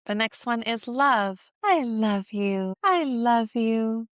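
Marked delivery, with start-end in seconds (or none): 1.6-4.1 tender. Shown as a demonstration. Tender demo to baby.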